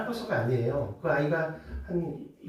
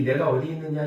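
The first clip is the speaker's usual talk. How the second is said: louder, demanding call; angry God; 6 dB louder than usual. Retold or imitated. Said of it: "하나님께서 화가 나셔서".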